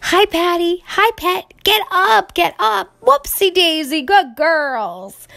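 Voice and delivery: high, loud calls to the horses; Pa shouting encouragement to the horses. A narrator's reading. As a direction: urge the horses up the bank.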